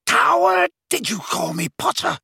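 high outburst on the first word; indignant shout. A narrator's reading. Snape stung by Harry's insult, shouted. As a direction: fling the insult back at him. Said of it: "shouted Snape".

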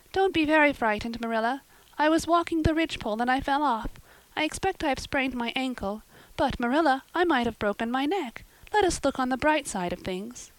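put-on high girlish voice, brave and chatty; a hurt girl cheerfully reassuring; young Anne. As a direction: Anne consoles the frightened Marilla. Anne's voice, high.

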